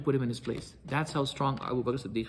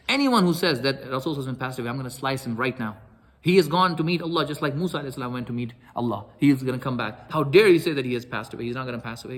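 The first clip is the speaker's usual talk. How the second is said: loud, enraged threat, rising louder to the end; furious yelling; 5 dB louder than usual. Retold or imitated. Umar yelling at the crowd in the masjid, furious shout. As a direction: bellow it like a man who refuses the news. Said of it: "who's yelling there".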